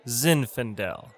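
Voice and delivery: Zinfandel slowly, ZIN-fan-del, falling; model pronunciation. Shown as a demonstration. Teacher models a wine name, slow pronunciation. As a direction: say Zinfandel as one slow careful word. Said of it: "It's pronounced".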